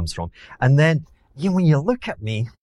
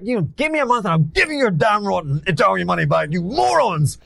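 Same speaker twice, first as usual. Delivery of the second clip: high-pitched, heated outburst; retold angry retort; 10 semitones higher than usual. Fund manager telling off Italian investors in a restaurant, heated and high. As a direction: spit out an indignant comeback, pitched well up.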